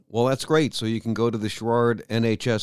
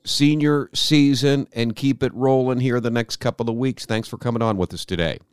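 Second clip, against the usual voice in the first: higher, polished station ID; radio voice; 3 semitones higher than usual. Shown as a demonstration. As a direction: announce it like a DJ. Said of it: "I'll speak in my radio voice".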